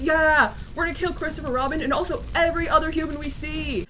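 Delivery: mock bloodthirsty rallying cry; animalistic zeal. Pooh and Piglet vowing to kill every human, mock zeal. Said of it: "super animalistic and were like".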